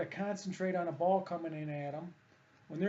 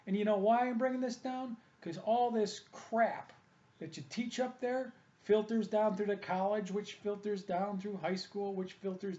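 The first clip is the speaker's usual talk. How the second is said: raised, higher, fired-up rant; angry rant; 4 semitones higher than usual. Real, not acted. Ranting at the coach about bad hitting cues, heated. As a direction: let the anger rise as you call out the coach.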